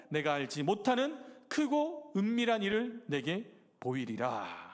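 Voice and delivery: measured, solemn Bible reading; deliberate pulpit recitation with drawn-out closing phrases; scripture reading. Acted. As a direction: read the verse out formally, phrase by phrase. Reads scripture aloud.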